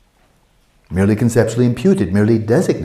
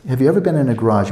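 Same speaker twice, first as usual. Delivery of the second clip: usual speaking voice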